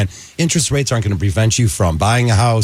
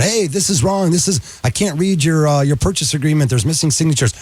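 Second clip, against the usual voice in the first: a touch higher, fussy complaint; mock nagging lender; 6 semitones higher than usual. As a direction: play the pushy lender calling about signatures. Mocking a nagging lender's call.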